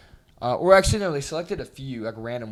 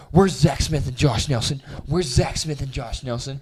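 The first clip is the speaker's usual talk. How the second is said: calling names at the door; slower than usual. Retold or imitated. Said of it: "She's like".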